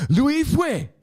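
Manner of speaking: high, loud mock-Asian accent; Asian emphasis. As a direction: belt the name in a hammed-up Asian accent. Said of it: "I'm just putting the Asian emphasis on it".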